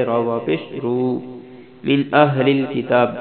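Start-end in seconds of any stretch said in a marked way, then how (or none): 1.9-3.1 اہل with a clear breathy ہا; demo pronunciation. Shown as a demonstration. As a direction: stretch اہل so the ہا is heard. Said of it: "حمزہ ہا زبر آہ". (اہل میں ہا کی واضح آواز)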